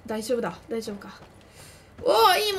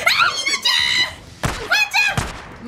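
high, loud delighted cry; excited squeal; 5 dB louder, much faster than usual. Real, not acted. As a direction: squeal with joy at the dog. Spots the dog, thrilled.

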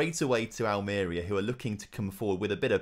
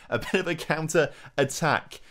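rising excited call; 5 semitones higher than usual. Real, not acted. Nervous manager watching the counter, rising excited call. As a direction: get more worked up on each repeat. Building excited repeat of phrase.

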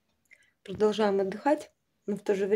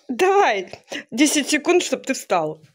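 commanding; 4 semitones higher, 5 dB louder, slower than usual. Pretend. Commanding son to get up.

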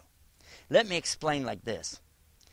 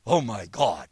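shocked gasp; 4 semitones lower, 5 dB louder, slower than usual. Retold or imitated. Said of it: "woman's shocked reaction".

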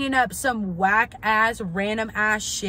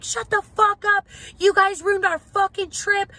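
much higher, louder hammed-up screaming; mock furious yelling; 11 semitones higher, 6 dB louder than usual. The family turning on the friend, hammed-up high furious yell. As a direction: scream it at him like the whole group lost it. They turn on him yelling.

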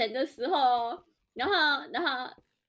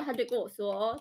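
ordinary talk

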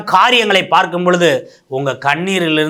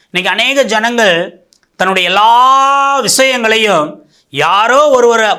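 slow emphatic preaching; 5 semitones higher, 4 dB louder, slower than usual. Real, not acted. Preacher stressing a warning.

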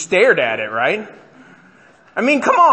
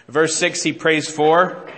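FOR drawn out and left hanging on a rise; slow up on "he prays for" and leave it open; fill-in-the-blank prompt; slower than usual. Shown as a demonstration. Preacher quizzing the congregation, prompting with a drawn-out, rising FOR.

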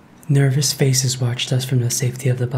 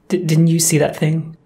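panicked stammer; 5 semitones higher than usual. A narrator's reading.

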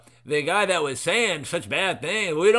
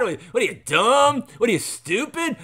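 mock taunt; 6 semitones higher than usual.

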